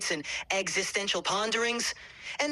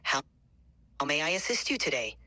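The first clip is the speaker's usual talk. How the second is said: customer service voice; 2 semitones lower than usual. Shown as a demonstration. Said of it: "my attempt at a customer service voice".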